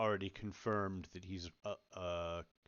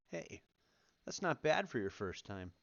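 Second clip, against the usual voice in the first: sincere encouragement; 3 semitones higher, slower than usual. Acted. Mage to man landing after first levitation, sincere encouragement. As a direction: gently praise a beginner, taking your time. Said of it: "look at him with a little bit of sincere".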